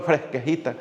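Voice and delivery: imitación juguetona del habla de Tuxpan; acento de Tuxpan. Retold or imitated. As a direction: di la palabra con acento de Tuxpan, en broma. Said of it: "Dicen en Tuxpan". (imitando en broma el acento de Tuxpan)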